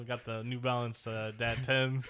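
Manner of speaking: lightly voiced suburban dad; mock dad. Co-host joking about dad shoes, lightly voiced dad. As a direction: put on a bit of a dad voice. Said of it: "it's dad time".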